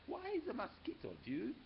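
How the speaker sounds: squeaky small-fry voice; smallest dog's voice. A narrator's reading. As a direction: pitch it way up like the littlest pup. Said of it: "the smallest one spoke up".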